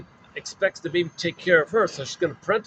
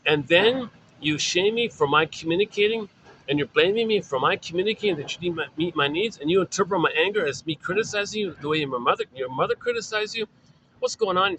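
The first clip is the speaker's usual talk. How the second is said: put-on upset baby; 3 semitones higher than usual. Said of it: "Poor baby's freaking out here".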